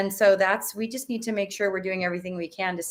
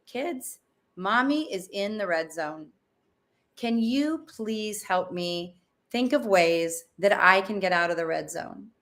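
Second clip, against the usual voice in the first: put-on calm to kids. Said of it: "And I say".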